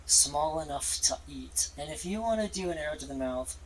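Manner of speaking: deep dragon voice. Acted. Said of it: "deep voice in Common".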